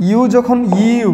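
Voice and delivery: very slow, stretched teacher phrase; drawn-out slow. Shown as a demonstration. Teacher stretching out the U rule for students, very slow. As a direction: stretch each word so it sinks in.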